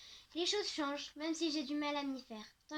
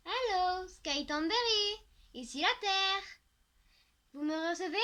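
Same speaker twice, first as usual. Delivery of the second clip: teasing call; 4 semitones higher, 5 dB louder than usual. A narrator's reading. Friend waving at daydreaming Sky, loud mock radio call. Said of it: "lance Milly en agitant une main".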